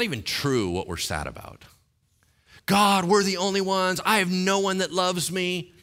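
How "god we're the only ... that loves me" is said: high, loud mock lament; mock whiny Elijah. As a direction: parody the sulking prophet. Mocking Elijah's self-pity.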